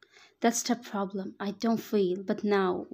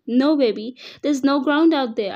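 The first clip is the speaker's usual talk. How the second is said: much louder, pleading yell of warning; desperate yell; 4 semitones higher, 8 dB louder than usual. Acted. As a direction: scream a warning as he nears the cliff. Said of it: "I yelled".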